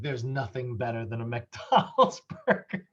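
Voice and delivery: bad French accent cracking into laughter; mock French chef accent, laughing midway; terrible French accent. French chef praising fast food, bad French accent broken by laughter. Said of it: "I have a terrible French accent".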